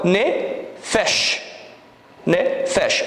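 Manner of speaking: teacher sounding out nefesh; syllable by syllable. Shown as a demonstration. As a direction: break nefesh into ne and fesh. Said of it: "nós temos nefesh".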